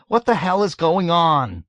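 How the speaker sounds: high, loud bewildered demand; desperate pleading. A narrator's reading. Scared man lost in the commotion, pleading loudly. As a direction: cry out for an answer. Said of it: "Hungry Joe pleaded".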